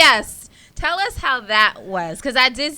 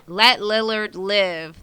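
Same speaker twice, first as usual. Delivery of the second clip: slow, careful; slower than usual. Shown as a demonstration. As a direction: let Lillard live, each word slow and separate. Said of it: "That's a tongue twister".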